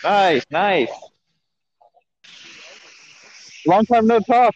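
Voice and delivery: muffled behind a face mask; talking through a mask. Real, not acted. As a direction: speak through a cloth mask. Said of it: "Are you talking through a mask right now?".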